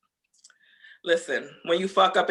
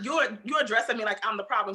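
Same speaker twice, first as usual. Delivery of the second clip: ordinary talk, nothing marked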